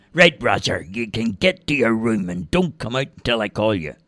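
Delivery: a hint of a stern father; firm telling-off to his son; stern dad. Dad sends Roger to his room, lightly stern.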